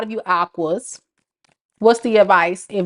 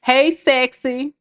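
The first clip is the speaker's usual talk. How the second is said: slow mock flirt; 3 semitones higher, slower than usual. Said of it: "Say you're a narcissist".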